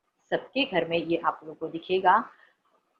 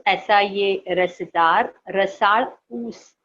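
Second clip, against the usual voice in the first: slow, relished words, a bit louder; slow, savouring the juicy cane; savouring slowly; 4 dB louder, much slower than usual. Acted. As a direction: stretch out the juiciness for the kids. Teacher savours juicy sugarcane.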